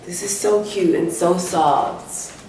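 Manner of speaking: drawn-out, slow gushing over softness. Real, not acted. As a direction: stretch the words out in delight. Gushing over the soft new robe.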